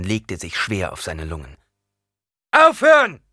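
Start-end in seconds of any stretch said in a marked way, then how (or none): 2.5-3.2 sharp, high, loud order; shouted command. A narrator's reading. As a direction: stop the fight with one cry. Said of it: "schrie Paul". (laut geschriener Befehl)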